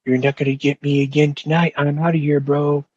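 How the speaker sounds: cocky. Retold or imitated. Inmate to rival as he leaves jail, imitated cockiness. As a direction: imitate yourself being cocky. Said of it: "in a very cocky manner".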